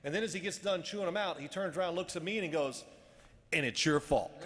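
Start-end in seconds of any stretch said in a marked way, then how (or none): 3.5-4.3 loud retold accusation at normal pitch; pointed blame. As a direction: turn the blame on him bluntly. Coach turns on him.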